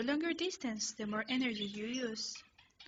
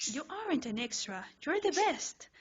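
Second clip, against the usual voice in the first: building to a high, loud shout; high, loud frantic shout; frantic yell; 4 semitones higher, 4 dB louder than usual. Acted. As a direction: shout it while clinging on. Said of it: "you yell".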